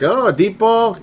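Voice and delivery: high mock-surprised question; a touch of disbelief, pitched high; mock surprise. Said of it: "It's like".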